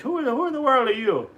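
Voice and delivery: lightly voiced high duck squawk; Donald Duck voice. Reader repeats Donald's question for Katie, lightly squawked. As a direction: echo the duck's question. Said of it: "he's saying it".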